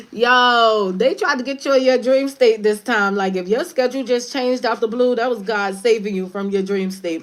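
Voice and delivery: high, loud, excited exclaiming; animated disbelief. Real, not acted. Warning listeners about their dream state, loud and excited. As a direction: call it out, amazed at the news. Amazed outburst after laughing.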